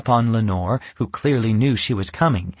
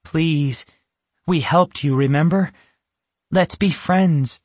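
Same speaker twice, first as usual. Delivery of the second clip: gentle; 6 semitones higher than usual. Acted. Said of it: "her voice gentle".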